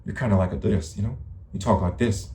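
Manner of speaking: lightly imitated drawl; mimicked drawl. Shown as a demonstration. Showing the abuser their own voice, lightly drawled imitation. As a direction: mimic someone's way of talking. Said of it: "You wanna hear your voice?".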